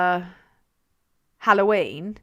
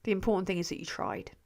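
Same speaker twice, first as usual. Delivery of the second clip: put-on much softer, quicker, like consoling a child; 3 semitones lower, 9 dB quieter, faster than usual. Shown as a demonstration. Streamer gently consoling a viewer who tried, softly. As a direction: soften it to a gentle pat on the head. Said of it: "repeated softly".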